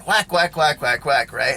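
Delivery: mimicking belt whacks. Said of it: "this whacking".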